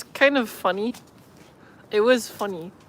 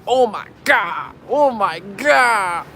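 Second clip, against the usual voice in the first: mock excited shoppers; much slower than usual. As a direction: ham up two guys showing off their English. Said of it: "they were saying stuff like".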